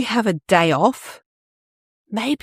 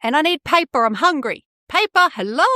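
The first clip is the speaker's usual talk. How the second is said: voicing the printer; 4 semitones higher than usual. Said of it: "It's not gonna sit there going".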